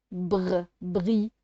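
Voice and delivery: "Br, bri": consonant blend alone, then with its vowel; isolated sound blend. Shown as a demonstration. Teacher working on a difficult sound, "Br, bri" sounded out. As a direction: build "bri" up from "Br". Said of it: "c'est un son difficile".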